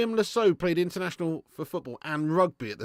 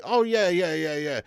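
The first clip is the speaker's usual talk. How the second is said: mock club boss; 3 semitones higher, 6 dB louder than usual. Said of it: "the players' club's gonna be like".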